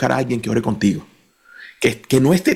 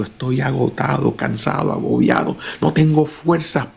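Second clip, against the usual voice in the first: weary. Retold or imitated. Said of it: "Hay días que estoy cansado".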